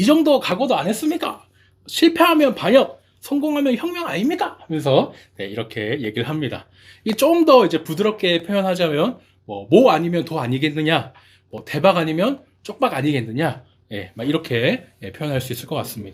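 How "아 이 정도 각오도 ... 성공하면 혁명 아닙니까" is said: Gyeongsang dialect, pitched very high. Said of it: "이 경상도 사투리로".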